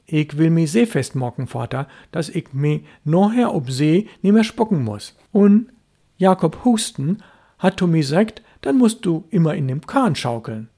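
put-on high, eager little boy voice; proud child explaining his plan; earnest boy. Boy explaining to father why he rocks the boat, earnest.

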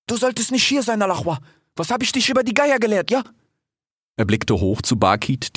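high, anxious fatherly questions; worried father fox. Acted. Fennec anxiously questioning his son, high voiced. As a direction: fuss over him like a worried dad.

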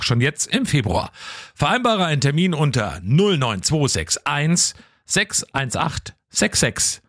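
slow, deliberate commercial read; radio ad read. Acted. Radio host reads the sponsor ad to listeners, slow ad voice. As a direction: sell the optician's summer trends, unhurried.

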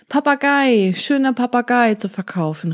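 a market seller calling out to buyers; hawker's call. Acted. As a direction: cry the wares across the market. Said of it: "rief er".

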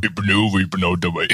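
put-on simple German bloke voice; hammed-up Uwe character. Host plays himself renamed Uwe joining in, silly character voice. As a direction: introduce yourself as a silly Uwe.

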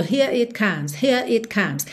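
here it comes with the R linking into it; linked R. Shown as a demonstration. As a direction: roll the R in here straight into it. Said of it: "ligar na próxima vogal". ("here it comes" com R ligado)

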